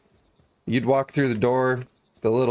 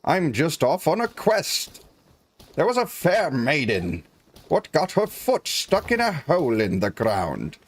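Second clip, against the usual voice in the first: hammed-up old-timey adventurer; 2 semitones higher, slower than usual. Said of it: "And you'd say".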